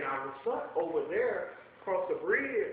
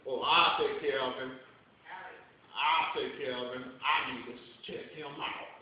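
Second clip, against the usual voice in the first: mean white pastor; 8 semitones lower than usual. Retold or imitated. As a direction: drop the voice low and smug like a mean pastor. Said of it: "the other mean white pastor said".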